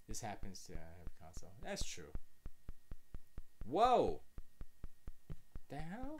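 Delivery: glitching audio with pitch jumps; glitchy jumping pitch. Real, not acted. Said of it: "My, my audio just went crazy".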